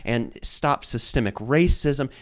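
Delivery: slow, loud and rising mock rant; mocking zealot rant. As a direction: ham up a fanatic reciting slogans. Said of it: "And they were saying".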